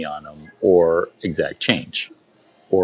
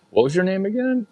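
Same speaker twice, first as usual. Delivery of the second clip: high impersonation; 13 semitones higher, faster than usual. Retold or imitated. Author asking name.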